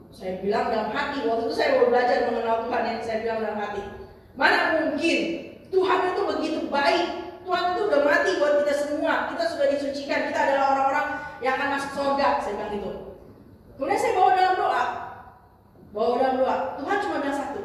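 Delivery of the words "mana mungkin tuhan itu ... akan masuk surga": retold emphatic objection, raised voice; protesting. Young believer inwardly rebutting a judgemental remark, emphatic protest. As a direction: push back hard, as if rebutting an accuser.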